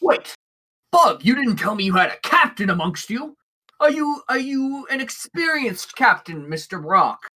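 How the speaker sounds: a hint of an eager, hopeful shipmaster; lightly voiced orc captain. Orc captain meeting an experienced sailor, lightly voiced eagerness. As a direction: lightly play a genial captain, surprised then proud. Game master plays Downton the orc.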